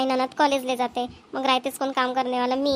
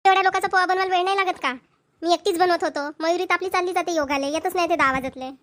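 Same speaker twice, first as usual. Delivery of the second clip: defensive retort; 5 semitones higher than usual. Acted. Wife snaps back at husband.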